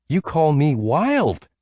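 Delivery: high, slow hushed shriek; quiet excited shriek. A narrator's reading. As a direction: squeal it, but keep it quiet. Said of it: "she shrieked in a quiet way".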